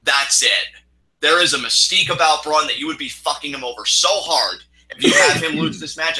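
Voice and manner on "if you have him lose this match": angry. Real, not acted. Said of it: "that's why I'm so angry".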